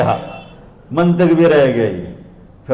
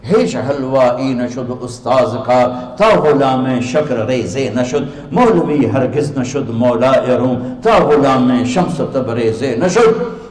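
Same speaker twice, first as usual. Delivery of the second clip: slow, measured Persian verse; verse recitation; slower than usual. Acted. Teacher reciting his poet's couplets to listeners, slow verse recitation. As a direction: recite it slowly, line by line.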